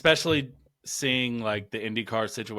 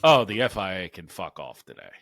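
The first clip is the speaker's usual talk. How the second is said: fired-up rant; escalating comedy rant; 2 semitones lower, 5 dB louder than usual. Real, not acted. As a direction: vent hard at the FIA. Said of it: "I'm in full rant mode".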